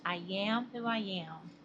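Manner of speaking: lightly imitated cartoon sailor line; Popeye catchphrase. Vlogger quoting Popeye about her southern tongue, light imitation. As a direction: quote the sailor with just a hint of his accent. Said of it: "as Pi Pi says".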